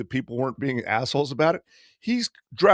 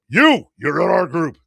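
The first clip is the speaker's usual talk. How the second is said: imitating a beach guide's loud hail; loud, punched summons; calling out; 3 semitones higher, 8 dB louder than usual. Boat guy picking tourists on the beach, calling out.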